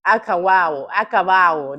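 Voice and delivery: Acabado as "akawawo", both B and D gone; imitating a missing B. Echoing the mumbled word back to the caller. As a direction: copy the blurred version, w sounds. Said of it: "That's what I'm hearing".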